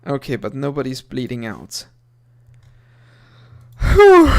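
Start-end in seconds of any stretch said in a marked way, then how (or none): 3.8-4.3 loud high sigh of relief; relieved whew. Real, not acted. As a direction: blow out in relief. Danger passed.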